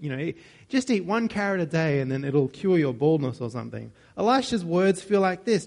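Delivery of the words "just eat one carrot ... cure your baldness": a lightly voiced internet ad pitch, a bit louder; mock the banal online ad, lightly; hint of a cheesy advert voice. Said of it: "like those banal, uh, ads on the internet".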